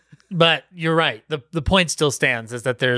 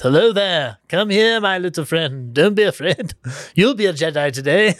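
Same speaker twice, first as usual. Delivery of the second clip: wise Jedi mentor; 2 semitones higher than usual. Retold or imitated. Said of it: "unveils his cloak and goes".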